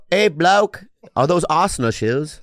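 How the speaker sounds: bad put-on British accent; mock Brit asking about shoes. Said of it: "That's a Greek accent?".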